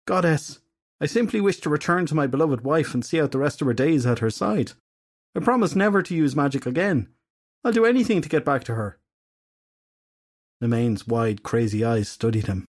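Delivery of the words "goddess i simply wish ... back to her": higher, earnest begging; desperate husband. Acted. Edgar begging the goddess to send him back to his wife, desperate. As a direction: plead with all you have left.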